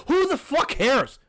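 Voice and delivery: slow, high-pitched angry retort; exasperated. Real, not acted. Podcaster fed up with rap gossip, exasperated. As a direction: throw it out in real disgust, drawn out. Outraged retort to his imitation.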